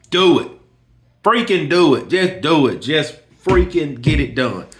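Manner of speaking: insistent urging. Retold or imitated. Urging friend to just do it.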